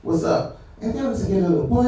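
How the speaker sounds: cocky imitation of a Latino regular; swaggering mock-Spanish greeting. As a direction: act like you own the place. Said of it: "walks in with this swagger".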